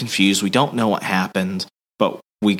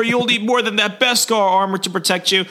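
hint of a cold threat; 12 semitones higher than usual. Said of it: "he's like".

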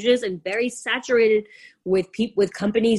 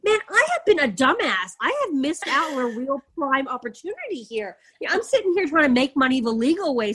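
self-mocking rant; 3 semitones higher than usual. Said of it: "I'm like".

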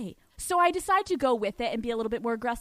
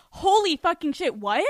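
shocked; 4 semitones higher, 4 dB louder than usual. Retold or imitated. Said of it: "it was like a".

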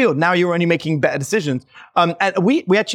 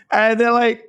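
usual speaking voice

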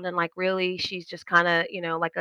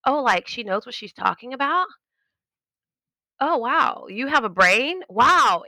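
mock amazement; 5 semitones higher than usual. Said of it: "as their mouths dropped".

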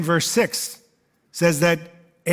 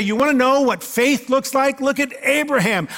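admiring; 6 semitones higher than usual. Pretend. World religions voiced admiringly.

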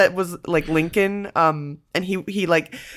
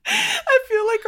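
laughing; 13 semitones higher, slower than usual. Real, not acted. Laughing about being hungover.

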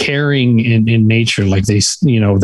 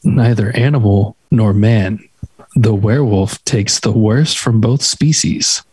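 hushed nature documentary. Shown as a demonstration. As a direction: read it like a nature documentary narrator. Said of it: "a cool narrator voice".

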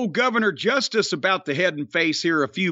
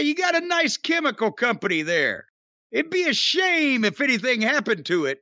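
smiling menacing loan shark; 4 semitones higher than usual. Retold or imitated. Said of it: "He's gonna say".

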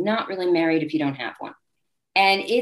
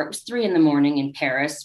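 ordinary delivery

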